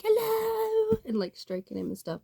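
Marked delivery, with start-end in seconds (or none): 0.0-1.0 very high, sing-song cooing hello; sweet high greeting. Retold or imitated. Mum greeting her blind son, high cooing voice. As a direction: coo at him like a baby. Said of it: "my mum's always just like".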